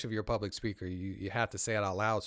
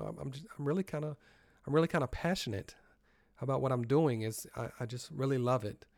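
understate your enthusiasm, pitched up; casual, low-key passion; 3 semitones higher, faster than usual. Shown as a demonstration. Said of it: "It's not a casual conversation".

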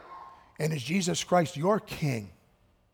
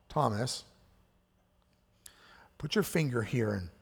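tender; 3 semitones lower, 4 dB quieter than usual. Retold or imitated. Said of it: "Jesus so lovingly comes to Thomas".

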